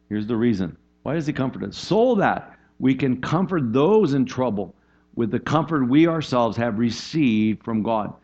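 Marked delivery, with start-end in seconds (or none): 1.8-8.1 slow scripture reading. Acted.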